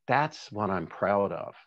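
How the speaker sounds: choked up with pride; real, held-back emotion while apologizing; tearing up. Real, not acted. Candidate to audience on staff's work, tearing up with pride. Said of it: "I'm gonna tear up now".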